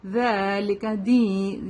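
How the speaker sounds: ذَلِكَ with a lengthened "dhaa"; two-count madd. Shown as a demonstration. Teacher shows two counts, lengthened vowel. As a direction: chant ذَلِكَ دِين, holding both long vowels. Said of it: "ٹو count لمبا کریں گے اس کو".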